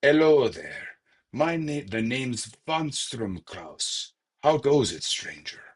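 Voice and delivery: a lightly put-on NPC voice; Mauritanian character voice. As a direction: ham up the stranger's greeting. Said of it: "They're probably more like".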